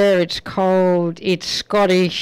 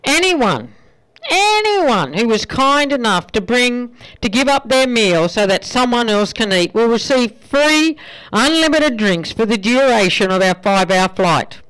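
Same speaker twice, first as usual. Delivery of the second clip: light Irish flight attendant, a bit higher; apologetic announcement in a lilting Irish accent; 4 semitones higher than usual. Acted. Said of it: "she continued".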